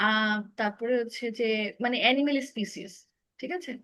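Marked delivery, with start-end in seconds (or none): 2.0-2.9 অ্যানিমেল স্পিসিস with 'ee' in স্পিসিস; correct pronunciation. Shown as a demonstration. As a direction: model the phrase অ্যানিমেল স্পিসিস, saying 'spee' rather than 'spy'. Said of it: "উচ্চারণটা হচ্ছে".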